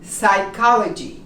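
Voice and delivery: Psychology opening on a clean S; silent P. Shown as a demonstration. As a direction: drop the P in Psychology, begin with S. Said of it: "You start with the S".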